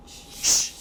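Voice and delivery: "Sh" as a soft voiceless hiss; sh sound. Shown as a demonstration. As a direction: breathe out a quiet "Sh". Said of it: "C H equals what sound?".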